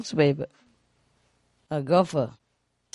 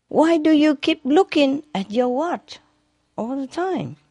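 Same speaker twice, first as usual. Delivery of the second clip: golfer voice; 9 semitones higher than usual. Acted. Golfer asks caddy in joke.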